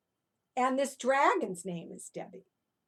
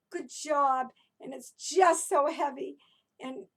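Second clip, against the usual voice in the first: unhappy dragon; 4 semitones higher, 5 dB louder than usual. Pretend. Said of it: "let's pretend we're Debbie the Dragon, and we're not happy".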